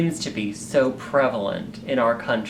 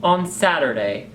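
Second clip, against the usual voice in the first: ordinary talk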